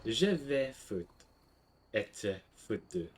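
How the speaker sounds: slow, careful French line; a measured classroom demo. Shown as a demonstration. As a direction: say it slowly, like a model for students. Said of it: "Gotta make sure I pronounce that".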